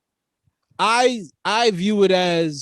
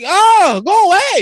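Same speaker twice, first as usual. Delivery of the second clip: mock annoyed brush-off; 11 semitones higher, 6 dB louder than usual.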